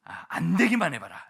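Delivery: loud, high inner threat, clenched resolve; grim inner vow. Retold or imitated. Preacher voicing his own vow before street evangelism, loud and defiant. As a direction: hurl it out like a dare you mean. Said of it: "제 마음에 뭐밖에 없어요?".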